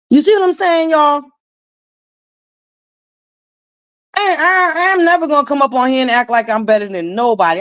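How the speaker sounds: tearful and fast, pushing the words out through the crying; choking up but insisting on it; voice breaking. Real, not acted. To viewers after recalling being bullied as a child, crying out.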